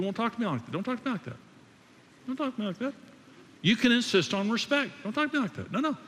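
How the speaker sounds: a wife refusing disrespect, pitch climbing; pushed-up pitch, firmer each time; voice going up. Retold or imitated. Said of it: "my voice is going up".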